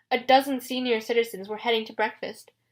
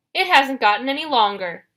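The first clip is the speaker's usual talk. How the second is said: loud, raised monster complaint; complaining Cyclops; 4 semitones higher, 6 dB louder than usual. A narrator's reading. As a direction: grumble loudly like an impatient monster. Cyclops voiced, arguing with Grover.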